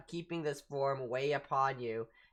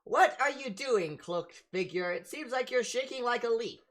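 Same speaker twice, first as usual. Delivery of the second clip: lightly voiced, higher-pitched questioning character; Socks; 6 semitones higher than usual. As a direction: quizzical game character, pitched up a little. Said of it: "Socks looks at you and goes".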